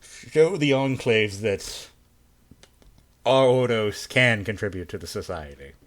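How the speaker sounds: measured official dismissal; icy polite interrogator. Acted. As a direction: speak as a formal superior, coolly polite. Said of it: "I'm talking in the interrogator's voice".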